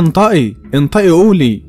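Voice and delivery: angry demand. Acted. Father ordering his daughter to confess, angrily insistent.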